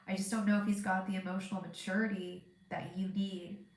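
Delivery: blocked nose, congested voice; stuffy nose. Real, not acted. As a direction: talk through a stuffed-up nose. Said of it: "so stuffed up right now".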